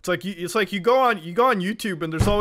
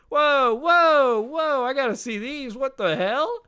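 surprised whoa; 7 semitones higher, slower than usual. Real, not acted. Reacting to discovered racist tweets.

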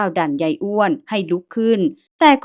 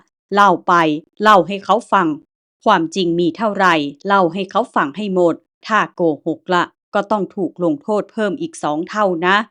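stern order. Acted. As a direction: command the old man to tell all. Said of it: "หันมากำชับตะแปะว่า".

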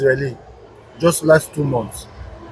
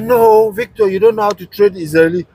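higher, mock-indignant girlfriend voice; a light imitation of the girlfriend, pitched higher; quoting the girlfriend; 4 semitones higher than usual. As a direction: retell her rebuke in her higher voice. Girlfriend quoted scolding him.

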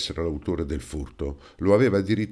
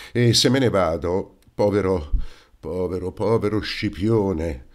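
rising, mildly tearful lament before the sob; understated on the edge of crying; a touch of crumbling grief over his brother; breaking down. Acted. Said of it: "Non riuscendo più a frenarsi, scoppiò in dirotto pianto".

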